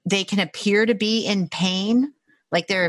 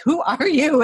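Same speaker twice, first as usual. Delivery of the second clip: higher, louder amazed question; mock disbelief, pitched up; astonished; 9 semitones higher, 5 dB louder than usual. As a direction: mimic a stunned client. Retells client amazed at her knowing.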